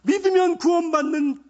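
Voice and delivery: loud, high preaching shout; fervent confession. Shown as a demonstration. Preacher showing how to confess the Savior, shouted proclamation. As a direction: cry out the confession at full force. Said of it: "이렇게 고백하는 거예요".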